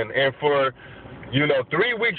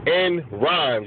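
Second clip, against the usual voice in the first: slow careful repeat; slower than usual. Real, not acted. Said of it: "Make sure I said it right".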